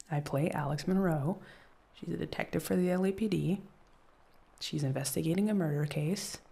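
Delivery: careful run-through of the pitch; rehearsed intro. Shown as a demonstration. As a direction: practise the basics again. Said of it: "just the basics".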